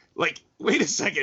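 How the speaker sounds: ordinary delivery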